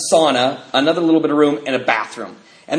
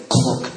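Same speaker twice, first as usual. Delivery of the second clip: mock hang-up click; 4 semitones lower than usual. Shown as a demonstration. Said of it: "an app that does the old noise".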